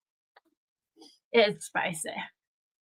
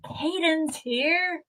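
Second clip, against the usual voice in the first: 1 greeting; 8 semitones higher, much slower than usual. Real, not acted. Greeting a viewer arriving on livestream.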